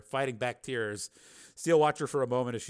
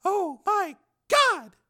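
slow, high, louder gasp of horror; horrified woman; 8 dB louder, much slower than usual. Acted. Susan seeing the surveillance camera, horrified. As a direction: draw it out in shock.

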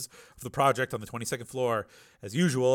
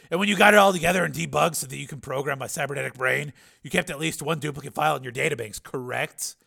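louder, higher, pressing question; Steele, challenging; 4 semitones higher, 6 dB louder than usual. A narrator's reading. Patient challenges the scientist who rebuilt him, raised pressing voice. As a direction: push the question forward loudly.

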